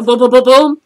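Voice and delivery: imitated punches. Fight breaking out in hallway.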